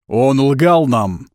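громко, медленно, протяжно объявить; объяви всем, растягивая слова; объявление толпе. A narrator's reading. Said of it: "объявил бородатый". (громогласное объявление)

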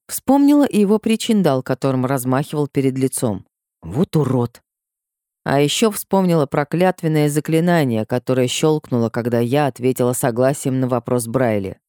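usual speaking voice

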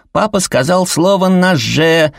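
put-on high, loud kid's squeal; little boy squealing on dad; squealing child. A narrator's reading. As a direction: shriek the tattle with glee. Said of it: "взвизгнул Сэл".

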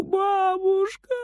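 very high, slow sobbing call. Acted. Frieder sobbing against grandma's apron. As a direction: sob her name into her apron. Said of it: "всхлипывает он".

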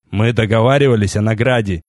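a toneless, bored cut-in; colourless interruption. A narrator's reading. Deynator cutting off the king, toneless. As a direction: say it as if nothing matters. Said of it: "бесцветно перебил мужчина".

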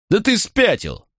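mocking, incredulous outburst; scornful disbelief. A narrator's reading. Macro mocks traitor's plea.

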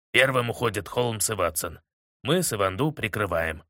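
a hint of a stern general. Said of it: "Сурово сказал". (сурово, по-командирски)

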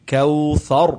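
کوثر with the final ر clearly heard; don't drop the ر in کوثر; sounded final ra. Shown as a demonstration. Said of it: "اس کی sound آپ نے ضرور پڑھنی ہے".

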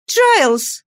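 put-on high young lady's call from the stairs; girl calling a servant from above. Young lady calling from upstairs.

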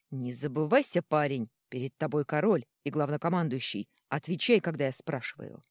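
loud, commanding king; stern rebuke. Acted. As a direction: put him in his place. King punches and rebukes the count.

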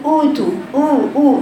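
«أوتو» بشفاه مقلوبة كالمشمئز; قلّد «أوتو» بقرف خفيف; كأنها قرفانة. Retold or imitated. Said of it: "تعمل كده كأنها قرفانة". («أوتو» خاطئة من الشفاه فقط)

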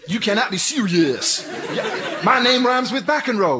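mock tennis tantrum, shouting; hammed-up court complaint yelled at the umpire; John McEnroe. Officer impersonating an angry tennis player, hammed-up shouting. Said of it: "I'm playing tennis".

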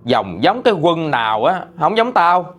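half-hearted mock yell of a cursing mother; imitating mom's scolding. Mother scolding her child for not cooking, mock angry. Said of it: "Mẹ mới chửi em là".

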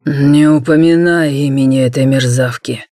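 low, growled warning; growling. Acted. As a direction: growl it through the teeth. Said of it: "рыкнул Наг".

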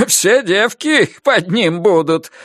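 slow, satisfied chuckling voice; smug father-in-law. Acted. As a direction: gloat with pleasure. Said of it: "удовлетворённо хохотал свёкор".

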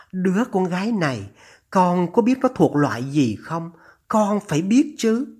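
lightly voiced anxious, scolding mother; a hint of a mother reproving her son; disapproving mother. (giọng người mẹ trách con)

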